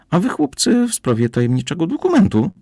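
high, curious woman's voice, set well above the narrator. A narrator's reading. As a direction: ask it sweetly as the stranger at the door.

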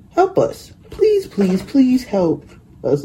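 high-pitched, desperate begging, slowing on the last please; pleading cry. A narrator's reading. Toys begging the little blue engine, in a high desperate plea. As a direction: beg in a high voice, stretching the final please. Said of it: "cried the dolls and toys".

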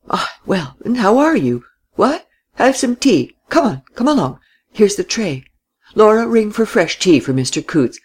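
put-on old man bustling over his guest; genial old host.

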